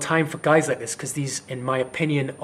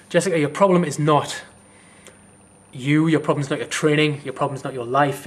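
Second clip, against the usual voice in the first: louder, forceful telling-off straight to camera; real angry lecture; 6 dB louder than usual. Real, not acted. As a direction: lean into the lens and lay into her. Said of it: "it's really pissed me off".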